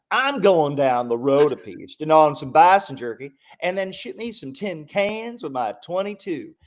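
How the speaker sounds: hammed-up rural American accent, high and loud. Shown as a demonstration. Showing how the British character should say it, hammed-up American accent. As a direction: lay on a big country American accent. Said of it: "in an American accent".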